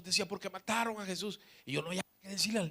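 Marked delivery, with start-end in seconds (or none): 0.3-1.4 softly voiced child's lament, lightly acted; a hint of a small child crying; imitating tearful child. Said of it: "el niño llorando".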